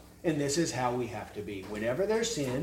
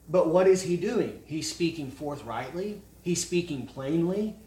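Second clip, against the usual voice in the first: ordinary talk, nothing marked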